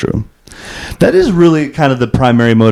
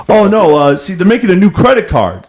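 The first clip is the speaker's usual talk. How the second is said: higher, earnest bro voice sharing big news; bro impression; 8 semitones higher than usual. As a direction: pass on the news like a secret. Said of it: "every single scenario is like".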